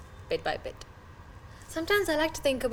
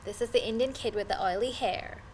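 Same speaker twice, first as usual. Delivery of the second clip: high-pitched schoolgirl calling out a taunt; high, half-hearted mock yell; mock classmate's yell; 5 semitones higher than usual. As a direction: mimic a jeering classmate in a high voice. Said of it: "yell across the hall".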